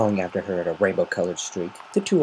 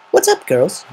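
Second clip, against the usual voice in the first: grinning; 11 semitones higher, 6 dB louder than usual. Acted. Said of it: "she asked, grinning".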